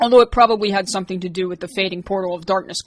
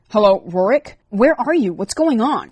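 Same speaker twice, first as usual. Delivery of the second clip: higher, anxious rush of questions; worried stammer; 3 semitones higher, 5 dB louder than usual. A narrator's reading. Liz anxiously phoning Rorik after his mishap. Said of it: "she stammered".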